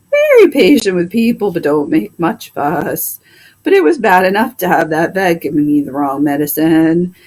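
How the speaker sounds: a fed-up horse complaining about his vet; talking horse. Acted. Plow horse complains to the doctor about the vet, grumbling horse voice.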